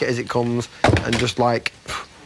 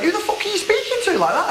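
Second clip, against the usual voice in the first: mock indignant yell, pitched up high; retold outburst; 13 semitones higher than usual. The speaker retelling his comeback to Dina, hammed-up outrage. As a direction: replay the outrage for the camera. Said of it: "I, I just went".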